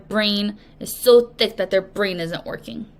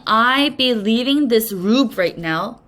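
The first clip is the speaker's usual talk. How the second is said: stuffy nose. Acted. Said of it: "Pretend he's talking like this".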